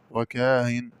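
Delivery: وكاهن with a short aa before the eased hamza; unstretched aa in وكاهن; short madd. Shown as a demonstration. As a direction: say وكاهن briefly as "wakaa-in". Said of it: "مع المد والقصر".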